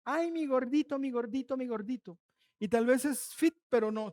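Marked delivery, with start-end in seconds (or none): 0.1-2.2 mock endearment. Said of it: "Por ese apodito que le habían puesto".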